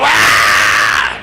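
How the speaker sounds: a short wide-open ahh yelled out; mock battle shout. Preacher acting out Israel's battle cry, yelled. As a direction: belt one war cry for the congregation. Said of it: "y a gritar".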